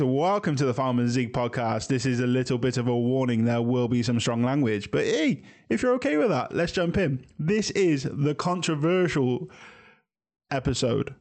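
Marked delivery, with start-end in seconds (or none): 4.9-11.1 hyped-up intro. Acted. Third take intro, hyped up.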